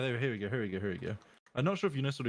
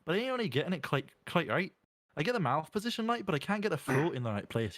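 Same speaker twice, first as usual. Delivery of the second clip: rough, not-quite-right Scottish accent; Scottish accent attempt; 3 semitones higher than usual. Shown as a demonstration. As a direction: struggle through a Scottish accent. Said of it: "Scottish is something like this".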